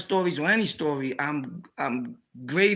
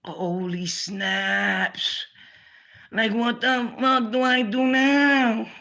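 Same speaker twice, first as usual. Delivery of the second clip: panicked surprise; 6 semitones higher, much slower than usual. Retold or imitated. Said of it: "And I'm like".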